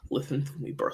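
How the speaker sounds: put-on Russian accent. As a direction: fake Russian accent, hushed. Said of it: "It's my Russian accent".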